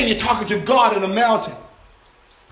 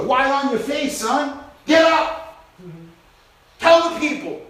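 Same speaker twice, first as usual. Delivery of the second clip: mild rousing command; 4 semitones higher than usual. Acted. God rousing Joshua from the ground.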